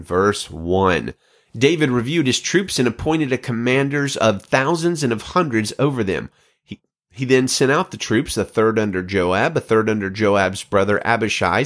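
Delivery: steady, clear Bible reading; scripture reading. Acted. Host reads Second Samuel to listeners, measured reading. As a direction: read the chapter with calm weight.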